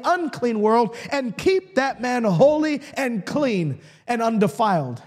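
driving, emphatic preacher's cadence; preaching. Real, not acted. Preacher passing on a beloved saying to the congregation, preaching. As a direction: build the list phrase by phrase with conviction.

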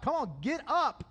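rally him like a coach at halftime; God's pep talk. Retold or imitated. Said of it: "He gives them a pep talk".

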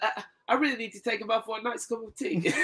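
barely holding in laughter on the quote; laughing through quote. Retold or imitated. Quoting Ellerbe to co-host, laughing.

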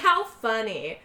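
slow, drawn-out mock amusement; pissed, fake lighthearted. Pissed woman plays it off, fake lighthearted. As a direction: say it sweetly with annoyance underneath. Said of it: "it's clear that she's pissed".

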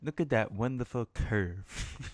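slow, hushed golf commentator; golf announcer. Pretend. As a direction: murmur it like a golf broadcast. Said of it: "you said that like a golf, like a golf announcer trying to be quiet".

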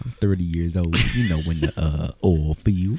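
imitating Gamma. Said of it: "It does sound like him a little bit".

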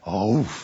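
short low woof; imitated dog woof. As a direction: answer with one loudish dog bark. Dog answers the butcher.

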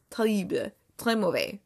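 "terrible" said the French way, mocking; mock-French verdict on a bad film; bad French accent. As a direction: do a badly faked French accent. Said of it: "I can't even do it".

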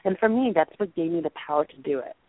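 ordinary talk, nothing marked

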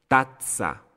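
tazza split by a held stop before "tsa": tat-tsa; pause on double Z. Shown as a demonstration. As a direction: hold a little pause inside tazza. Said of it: "Entonces hago una pausa".

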